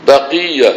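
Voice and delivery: তাকিয়া said firmly, middle drawn out; pronunciation demo of তাকিয়া. Shown as a demonstration. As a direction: model তাকিয়া for listeners to repeat. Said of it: "এই শব্দটা উচ্চারণ করতে পারেন না". (তাকিয়া শব্দটি স্পষ্ট উচ্চারণে শেখানো)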